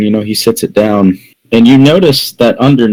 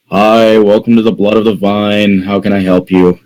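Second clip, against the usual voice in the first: begrudging. Acted. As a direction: greet customers grudgingly, barely raising the pitch. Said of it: "he begrudgingly walks up to you".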